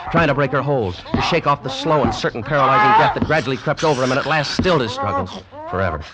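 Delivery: mounting excitement. Acted. Climax of cat-snake fight narrated.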